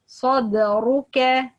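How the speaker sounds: slow Sadruka, heavy start, light ka; light final kaf. Shown as a demonstration. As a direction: keep the ka in Sadruka thin and forward. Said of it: "light letter".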